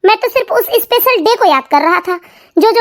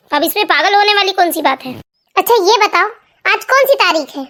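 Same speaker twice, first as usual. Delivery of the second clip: lightly lowered, grumbling husband voice; irritated husband. Acted. Husband grumbling at wife's morning questions, lowered voice. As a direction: complain she's nagging too early.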